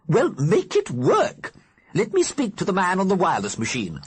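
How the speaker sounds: put-on imperious old lady ghost. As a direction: order him about like a grand dame. Mrs Liberty demands the wireless.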